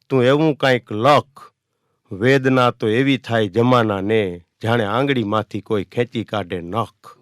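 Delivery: slow, sorrowful verse delivery; poem recitation. Acted. Poet reciting a painful poem to the audience, slow sorrowful recital. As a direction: recite each line slowly, full of pain.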